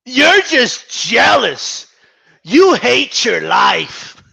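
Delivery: slow, drawn-out sneering fanboy taunt; slow mock fanboy jab. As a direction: stretch the taunt like a smug fan. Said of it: "I'm gonna do it in my fanboy voice".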